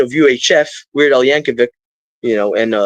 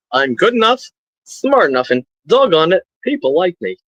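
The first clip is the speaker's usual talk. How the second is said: comedian impression; 3 semitones higher than usual. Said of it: "the guy that they canceled for".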